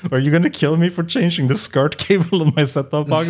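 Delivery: high-pitched customer impression; imitated alarmed grandmother. Grandmother asks technician about the threat, high imitated alarm. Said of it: "So she was like".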